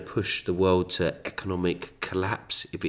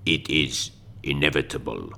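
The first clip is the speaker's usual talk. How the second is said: sultry perfume ad; 4 semitones lower than usual. Pretend. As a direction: breathe it like a fragrance slogan. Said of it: "Klaus Schwab, the new fragrance".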